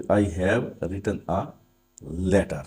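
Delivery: slow example sentence; slow dictation. Shown as a demonstration. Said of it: "dictating example slowly". (धीमे उदाहरण लिखवाना)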